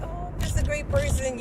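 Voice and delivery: high, loud, smug self-praise; mock-proud boast. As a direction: brag like you're sure of yourself. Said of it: "'Cause you're like".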